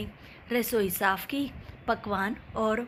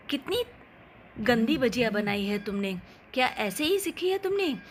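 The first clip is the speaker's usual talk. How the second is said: scolding mother-in-law; 2 semitones higher than usual. Acted. Mother-in-law scolding daughter-in-law over bad bhajiyas, mock indignant. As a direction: tut at her cooking like a fussy mother-in-law.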